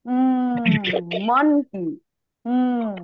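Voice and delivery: "উম" as a humming m with both lips closed; lips-together m. Shown as a demonstration. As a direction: press the lips together for the m of "monkey". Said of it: "দুইটা ঠোঁট একসাথে". ("উম", দুই ঠোঁট একসাথে মিলিয়ে)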